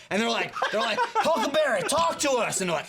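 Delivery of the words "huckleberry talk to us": mock calling. Hunters calling possessed friend.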